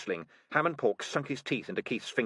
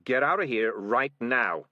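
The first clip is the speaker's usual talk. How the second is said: cat's warning; 2 semitones higher, 5 dB louder, slower than usual. A narrator's reading. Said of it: "he said as he ran past".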